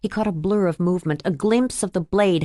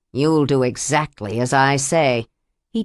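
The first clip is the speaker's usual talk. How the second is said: menacing abuser; 5 semitones lower than usual. Acted. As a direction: lower slowing villain voice. Abuser commands.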